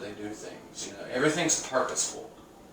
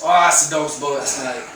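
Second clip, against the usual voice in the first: put-on a light British accent, louder; 2 semitones higher, 6 dB louder than usual. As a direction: lightly imitate a British coworker's slang. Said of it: "he likes to say the dog's bullocks".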